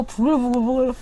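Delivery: acted boiling anger. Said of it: "이렇게 화가 난단 말이죠".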